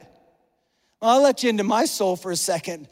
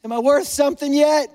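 higher, anxious plea for approval; needy pleading; 5 semitones higher, 4 dB louder than usual. Acted. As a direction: beg to hear that you count. Acting out begging God for worth.

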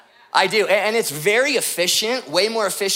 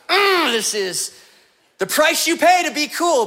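high, strained act of putting up with a bitter drink; mock suffering; 7 semitones higher, 3 dB louder than usual. Secretly hating the beer, pretending to like.

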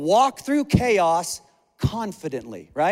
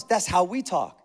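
ordinary talk, nothing marked

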